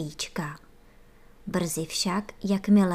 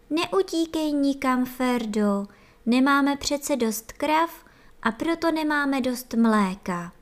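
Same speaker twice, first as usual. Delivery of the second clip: higher, insistent warning to Ferda; urgent plea; 6 semitones higher than usual. A narrator's reading. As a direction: stop him from running off. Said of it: "řekly chůvičky".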